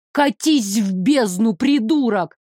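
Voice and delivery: громче и медленно, с отвращением; огрызнуться в лицо; злой выкрик. Acted. Героиня огрызается. (героиня зло огрызается)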